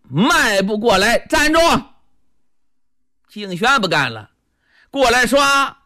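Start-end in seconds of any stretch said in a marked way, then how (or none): 1.3-1.6 high, sudden "stop" command; sharp halt order. Acted. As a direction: cut in to stop an attacker. Calling halt to attacker.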